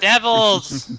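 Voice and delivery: Devils shouted loud and high; emphatic correction. Shown as a demonstration. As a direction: hammer the word Devils. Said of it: "Wait, no, I gotta do it".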